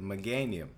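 Meganium said meh-GAN-ee-um; his pronunciation. Shown as a demonstration. Insisting on his pronunciation, Meganium said meh-GAN-ee-um. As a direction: Meganium with the middle syllable GAN. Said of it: "Like I just said it".

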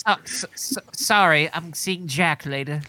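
a put-on British accent, dropping soft; mock British accent as Cruella. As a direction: play it in a British accent, coy. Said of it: "She put on her British accent".

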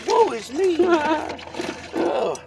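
high, hammed-up woe-is-me cry; theatrical mock despair; mock lament. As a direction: play the tragic victim for laughs. Mock lament, much higher.

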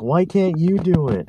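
high, slow, put-on whiny voice; mock exasperation. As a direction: whine the question up high, drawn out. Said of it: "I'm all like".

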